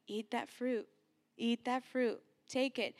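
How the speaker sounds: softly voiced tempter, understated; a quiet, coaxing temptation, lightly acted; enemy's voice. The enemy tempting Eve in the garden, quietly urging. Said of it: "the enemy's voice saying".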